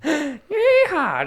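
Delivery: high, loud rodeo whoop; cowboy yeehaw. Pretend. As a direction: whoop like a cowboy on a bucking horse. Cowboy riding the treadmill joke.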